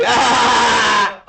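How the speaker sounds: high, silly laughing shout; playful high laughter-therapy yelp. Shown as a demonstration. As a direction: cry "ah!" goofily, breaking into laughter. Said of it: "Now make it silly".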